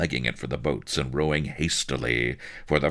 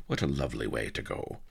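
low, soft, quick aside; ardent thought; 6 semitones lower, 7 dB quieter, faster than usual. A narrator's reading. Drowning colonel musing on the kiss, soft ardent aside. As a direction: murmur it privately to yourself. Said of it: "he thought ardently".

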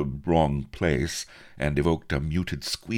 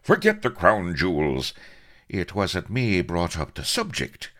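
indignant retort; 6 semitones higher, 4 dB louder than usual. A narrator's reading. Avery still quarrelling in narrated dialogue.

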